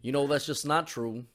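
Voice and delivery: put-on unhurried Savannah southern accent; Savannah Georgia accent. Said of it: "like, the George, like, the S-, Savannah".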